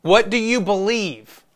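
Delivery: slow, high, pointed question; challenging question. Acted. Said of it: "When people ask me that question".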